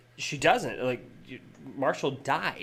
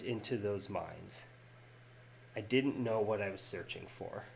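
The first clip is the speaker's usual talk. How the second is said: tender letter reading. Acted. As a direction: read it gently like a dying friend's goodbye. Reads Marshal's farewell letter.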